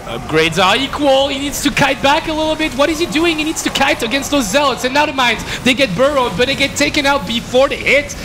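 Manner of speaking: high-pitched, urgent live commentary; rising esports caster excitement; excited play-by-play. Real, not acted. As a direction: call the fight as it swings.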